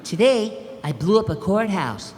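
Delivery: Doug voice. Acted. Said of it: "updated version of Doug".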